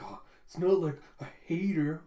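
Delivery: mock tsundere protest; lightly played tsundere reluctance; tsundere denial. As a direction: act out a slightly huffy denial. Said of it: "like, acting all tsundere".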